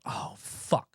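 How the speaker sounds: breathy under-the-breath oh fuck; hushed, caught-out swear; whispered curse. Real, not acted. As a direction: mutter it to yourself in dismay. Realizes mistake, whispered.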